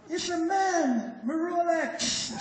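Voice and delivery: very slow Jamaican Patois punchline, laughing. Retold or imitated. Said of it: "So I'm gonna speak in Patois".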